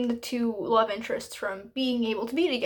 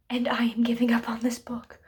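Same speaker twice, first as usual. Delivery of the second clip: whispered confession. Real, not acted. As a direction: whisper it like a secret. Dramatic announcement giving up book.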